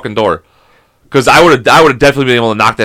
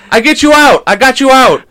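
high, raised mock holler; teasing call-out; 11 semitones higher, 4 dB louder than usual. Retold teasing call from desk clerk.

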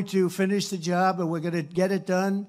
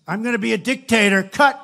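higher, louder clipped mock; mock news clip; 5 semitones higher, 10 dB louder than usual. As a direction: slam the cut like a hostile editor. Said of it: "So they have me on the news".

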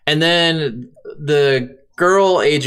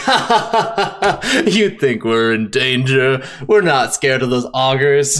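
mocking laugh; 2 semitones lower, slower than usual. Mocking vampires retold in game.

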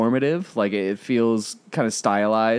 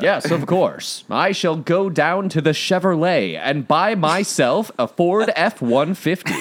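mock radio announcer; 5 semitones higher than usual. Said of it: "radio announcer".

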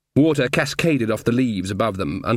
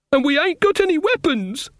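high-pitched, held-up squeak of worry; alarmed. A narrator's reading. Tinker to the others as elves close in, high alarm. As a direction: panicky villager, pitch way up. Hunted men cornered without weapons.

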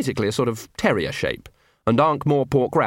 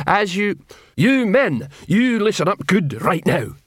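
high, loud troll boom; 8 semitones higher, 3 dB louder, slower than usual. Acted. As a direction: bellow it at the men. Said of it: "Detritus boomed".

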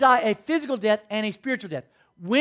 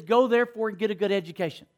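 wrong version, rushed; 2 semitones lower, faster than usual. Shown as a demonstration. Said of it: "nowhere in the scriptures are you gonna read".

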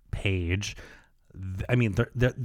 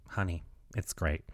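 reassuring; 4 semitones lower, 10 dB quieter than usual. Retold or imitated. Retold saleswoman reassures the customer.

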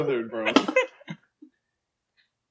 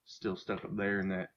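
McConaughey as Luigi. Acted. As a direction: mumble it like a chill Texan. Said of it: "Matthew McConaughey as Luigi".

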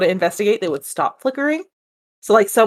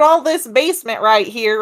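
put-on all this basement in a country accent; 2 semitones higher than usual. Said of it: "That sounded really country accent".

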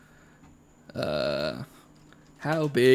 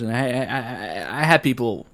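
put-on red-blooded Texan accent. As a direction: play the convincing Texan. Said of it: "red-blooded Texan".

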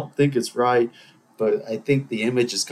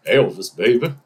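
impression of a singer; 4 dB louder than usual. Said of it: "The first one was Elvis".

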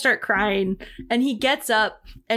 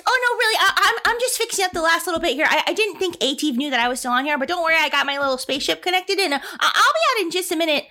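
nervous mechanic; 5 semitones higher, faster than usual. Acted. GM voices nervous young mechanic.

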